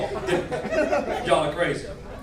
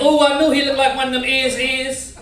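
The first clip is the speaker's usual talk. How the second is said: put-on higher, louder hood-girl exclamation; mock hood chick; 6 semitones higher, 5 dB louder than usual. Hood chick reacting to his looks, mock exclamation.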